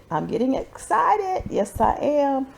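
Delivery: excited. Real, not acted.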